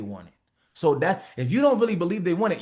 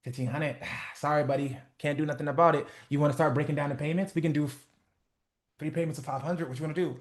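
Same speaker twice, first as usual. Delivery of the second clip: uncertain price. Shown as a demonstration. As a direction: apologize for the price before anyone objects. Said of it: "When you speak with uncertainty".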